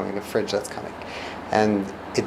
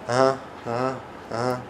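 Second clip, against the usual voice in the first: perfunctory uh-huh; 5 dB quieter than usual. Shown as a demonstration. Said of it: "not just like".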